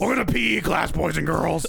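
hearty gym teacher greeting. Shown as a demonstration. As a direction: greet the class like a PE coach. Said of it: "You gotta do it like".

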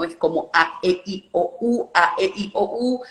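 each vowel A E I O U spoken with a big, exaggerated mouth opening; vowels with wide mouth. Shown as a demonstration. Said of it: "mover mucho la boca al hablar". (vocales con la boca muy abierta)

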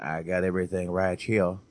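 lightly mocked Louisiana accent; hint of put-on Louisiana accent; Seagal. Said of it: "he went Louisiana again at the end".

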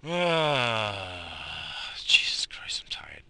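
imitating her in a weary whisper; a mock exhausted whisper; tired whisper. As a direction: breathe it out, worn out. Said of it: "And then she goes".

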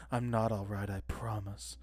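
lightly voiced mopey teen, fading; a hint of a sulky emo kid; whiny emo teen. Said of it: "his best impression of an emo".

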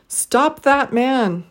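Stop, that, man each stressed slowly, man stretched up then down; slow three-beat Stop that man; deliberate stress on every word. Shown as a demonstration. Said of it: "stress three syllables in each phrase".

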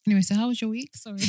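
coughing, choked up; words caught in the throat; choking on a drink. Real, not acted. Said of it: "It's really choking me".

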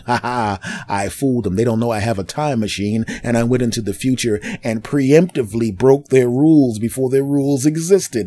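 mock evil genius, cackling; hammed-up smug schemer laughing at his own trick; gloating villain. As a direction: pretend mastermind boasting to himself. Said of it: "and going".

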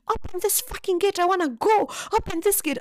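high, loud angry yelling; mock scream to have the gate opened; angry friend yelling to be let out; screaming demand. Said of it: "starts screaming for us to open the gate".

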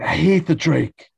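loud, high exasperated cry; mock angry outburst. George on losing the TV, mock fury. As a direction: burst out in hammed-up frustration.

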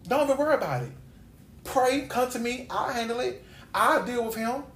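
lightly voiced God, telling her to leave it to him; reassuring God. God answering her worry about a rude man, reassuring.

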